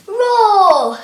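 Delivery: loud lion roar. Shown as a demonstration. Teacher counting the push-ups with a loud lion roar. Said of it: "and then you go roar".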